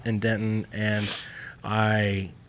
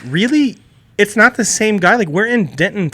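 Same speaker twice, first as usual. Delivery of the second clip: high, loud incredulous retort; acted disbelief; 9 semitones higher, 8 dB louder than usual. Customer to stranger about a shared Samoan friend, acted disbelief. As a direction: push the pitch way up in mock disbelief.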